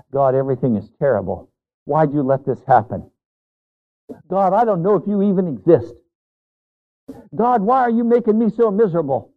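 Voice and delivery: whiny complaint to God, rising in pitch; mock grumbling prayer. Preacher mimicking a grumbling believer, whiny. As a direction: act out a fed-up believer moaning at God. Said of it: "we grumble in so many ways".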